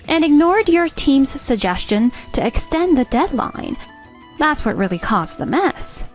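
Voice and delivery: firm scolding with punched key words; stern reprimand. Acted. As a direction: lay out the accusation, leaning on each charge. Boss scolds employee for betrayal.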